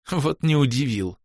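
медленно, давясь смехом; сказать сквозь булькающий смешок. Acted. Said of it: "давясь смехом, пробулькала чёрная баронесса". (булькая от смеха)

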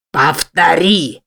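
slow, heavy beast's command; a growled demand dragged out; snarled order. Acted. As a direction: bark it slowly like a monster. Monster demands she repeat.

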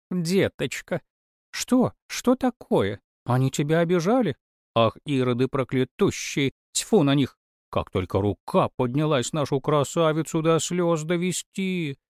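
put-on high, fussing wail of an old nanny; lamenting nanny. A narrator's reading. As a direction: fuss over the crying child. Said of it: "запричитала нянька". (нянька причитает)

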